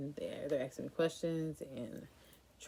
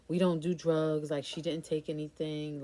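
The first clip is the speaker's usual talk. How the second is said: defensive; 5 dB louder than usual. Retold or imitated. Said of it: "he's getting defensive".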